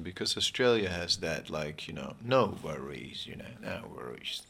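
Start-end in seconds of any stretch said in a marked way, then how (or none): 2.2-4.4 put-on Australian accent. Speaker joking about Australians, in a light Australian accent. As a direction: slip into a hint of an Aussie accent. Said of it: "slightly Australian".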